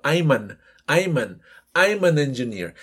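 "I'm an" run together as one word; word linking. Shown as a demonstration. Teacher demonstrates engineer example, "I'm an" linked as one word. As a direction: slide "I'm an" straight into engineer without a gap. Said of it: "las juntan como si fuera una sola".

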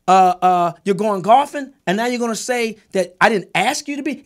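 heated, rising retelling of calling out a lie; angry retort. Retold or imitated. Retelling telling off a friend over a lie, heated. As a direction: fire back at a friend who lied. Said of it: "I said".

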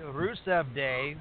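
slow, Russian-accented "Rusev Day". Real, not acted. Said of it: "suddenly launch into a Russian accent".

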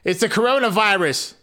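hammed-up panicked aside; mock doom joke. Narrator joking about coronavirus in the father's voice, mock panic. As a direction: fake alarm for a laugh. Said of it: "Just kidding".

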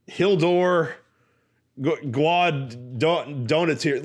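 Hildur said high, halting, syllable by syllable; attempted Icelandic name. Shown as a demonstration. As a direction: sound out Hildur slowly, guessing each part. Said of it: "be able to pronounce it".

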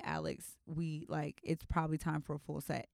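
low, soft nail tech voice. Retold or imitated. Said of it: "she's gonna tell me".

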